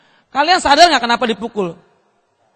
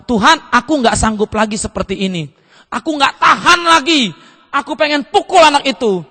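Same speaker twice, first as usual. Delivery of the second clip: a worn-out father crying out he can't take it; desperate prayer; 3 dB louder than usual. Retold or imitated. (doa putus asa makin keras)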